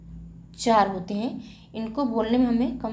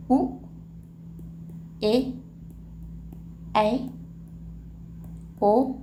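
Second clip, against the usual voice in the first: slow vowel recital; 4 dB quieter, much slower than usual. Shown as a demonstration. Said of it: "तो कितने हो गए".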